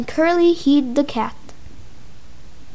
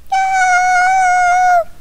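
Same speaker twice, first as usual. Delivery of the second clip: high tiny shriek; squeaky scream. Pretend. Victim pleading in play.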